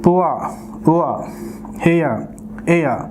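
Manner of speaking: "పువా, ఉవా" as "poo-a, oo-a", no R; each word isolated, "హెయిర్" said "he-ya"; silent final R. Shown as a demonstration. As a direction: end "హెయిర్, ఎయిర్" on "ya", leaving R out. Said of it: "ఆర్ sound అనేది మనం produce చేయకూడదు".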